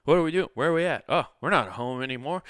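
put-on high, loud, just-woken child; startled toddler. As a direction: wake up confused, blurting questions. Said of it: "he was like".

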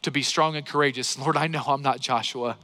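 a hint of a hushed personal prayer; quiet prayer. Shown as a demonstration. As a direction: pray it gently, as if alone with God. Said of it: "And so I begin to pray then".

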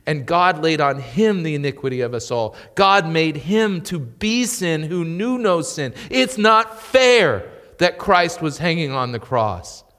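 building preaching climax; fervent preaching. Real, not acted. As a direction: preach it with rising fervour.

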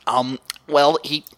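nasal nerdy voice, trailing off; stereotypical nerd voice. Retold or imitated. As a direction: play the awkward nerd. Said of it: "the most stereotypical nerd voice".

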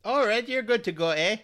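Canadian border guard, friendly with a closing eh; a hint of a cheery Canadian border agent; Canadian accent. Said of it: "certainly the best Canadian accent".

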